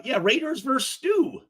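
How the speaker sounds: mock shout. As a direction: shout the slogan mockingly. Mocking a commenter's slogan.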